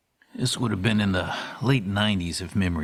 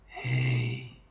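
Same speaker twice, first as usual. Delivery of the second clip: weak breathy wheeze, low and soft; Stan wheezing; 7 semitones lower, 5 dB quieter than usual. A narrator's reading. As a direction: gasp it out like a sick man. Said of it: "Stan wheezed".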